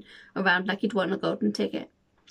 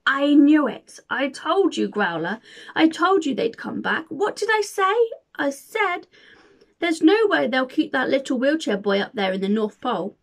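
gloating villain, louder and higher; wickedly posh hunter; 5 semitones higher, 4 dB louder than usual. Acted. Hunter gloating at William, wicked posh villain voice. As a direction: crow over the trapped boy in a sneering villain voice. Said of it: "in his wickedly posh voice".

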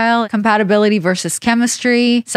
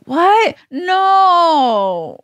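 much higher, hammed-up innocent shock; mock denial; 8 semitones higher than usual. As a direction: feign outrage at being caught. Denies fake sleeping, caught out.

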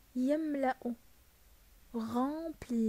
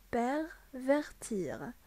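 slow repeat; much slower than usual. Shown as a demonstration. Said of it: "عاودها, s'il vous plaît".

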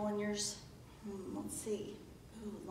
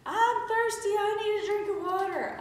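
Gabriella; 12 semitones higher, 7 dB louder than usual. Retold or imitated. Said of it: "when Gabriella was little, she".

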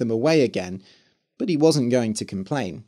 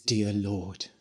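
whispered; 4 semitones lower, 8 dB quieter than usual. Acted. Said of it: "he whispered".

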